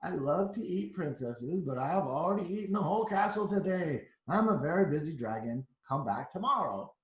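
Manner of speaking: a bored, busy dragon brushing her off. Acted. Storyteller voicing the dragon at the door, a touch gruff. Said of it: "The dragon stuck his nose out, out, nose out of the door and said".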